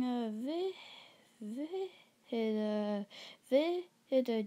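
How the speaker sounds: stuck on the first syllable; nervous stammer, restarting the word; stuttering. Real, not acted. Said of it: "why I'm stuttering".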